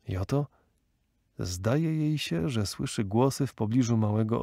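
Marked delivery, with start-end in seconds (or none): none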